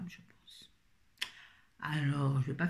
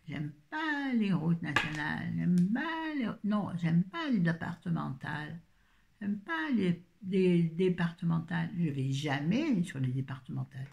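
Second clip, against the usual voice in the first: réplique de sketch. Retold or imitated. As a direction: quote a comedy routine, stretching the negatives. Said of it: "c'était un sketch". (réplique de sketch, légèrement jouée)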